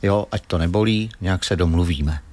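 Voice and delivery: demonstrating calm, low-key reassurance. Shown as a demonstration. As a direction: talk gently and evenly, as if negotiating with a mosquito. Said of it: "a klidným hlasem musíte říct".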